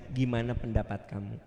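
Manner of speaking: low, soft question; gentle asking. Acted. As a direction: ask kindly for the child's view. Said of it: "Indah sekali".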